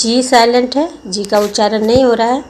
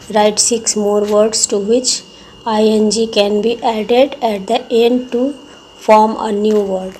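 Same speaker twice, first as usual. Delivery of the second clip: drawn out, word by word dictation pace; slow textbook reading; much slower than usual. Acted. Teacher slowly reading the exercise instruction to the class. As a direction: read the task slowly so all can follow.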